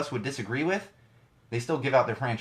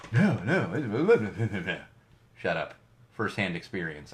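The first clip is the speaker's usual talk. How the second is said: mocking hate mail; 4 semitones lower than usual. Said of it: "here comes the hate mail".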